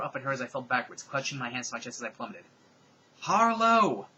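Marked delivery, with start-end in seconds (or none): 3.2-4.1 high, loud scream of a name; villain screaming after falling heroine. A narrator's reading. Screaming a name out a window. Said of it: "I heard Marissa Weigler scream".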